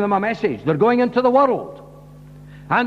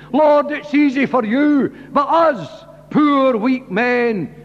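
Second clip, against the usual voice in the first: pleading disciples; 3 semitones higher than usual. Retold or imitated. Disciples pleading with their Lord, raised and earnest. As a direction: voice the weak men begging for power.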